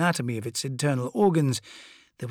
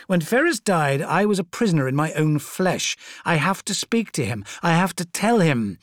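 loud, anguished and pleading; a demigod close to breaking; desperate tyrant voice; 6 semitones higher, 5 dB louder than usual. Acted. Fulgrim's desperate outburst.

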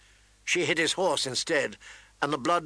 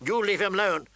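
mild scream; 6 semitones higher than usual. Acted. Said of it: "Sansa screamed at her sister".

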